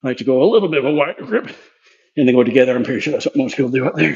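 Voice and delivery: winded mid-workout; talking while catching breath. Real, not acted. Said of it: "so I'm pretty winded".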